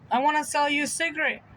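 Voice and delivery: a hint of an eager old seller; old man pitch. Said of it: "he's probably in his seventies or eighties".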